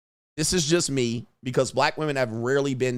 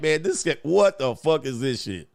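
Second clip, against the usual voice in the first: irritated. Retold or imitated. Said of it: "I'll be like".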